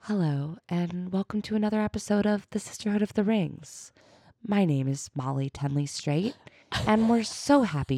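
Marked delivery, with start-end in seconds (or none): 0.0-6.3 soft, hushed radio-host intro; Phoebe Judge impression. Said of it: "Can you try".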